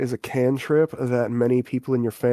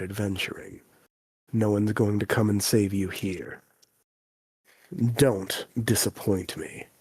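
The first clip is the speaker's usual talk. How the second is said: lightly voiced stern father, lower at phrase ends; 3 semitones lower than usual. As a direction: warn them gravely, slowing on the last words.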